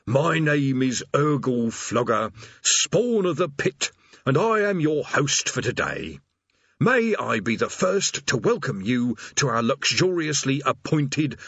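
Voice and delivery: slow, high, sing-song recited welcome; scripted demon greeter. Acted. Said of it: "script patiently explained".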